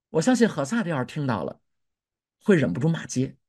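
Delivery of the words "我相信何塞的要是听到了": ordinary delivery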